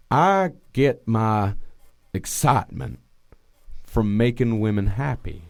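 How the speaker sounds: faraway impression with long pauses; imitated wistful killer. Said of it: "wistful look in his eye while he was saying it".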